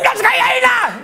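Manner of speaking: very high-pitched mock cry in bed; hammed-up high wail; mock Japanese woman. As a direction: squeal it out as a caricatured Japanese woman. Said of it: "She goes".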